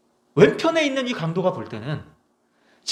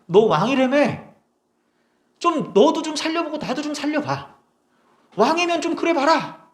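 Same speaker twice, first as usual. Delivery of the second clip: much higher, sneering taunt, first words slow; mocking criminal; 9 semitones higher than usual. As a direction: jeer at him from the next cross. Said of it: "예수님을 조롱하는 거예요". (옆 십자가의 죄인이 예수님을 비웃는 조롱)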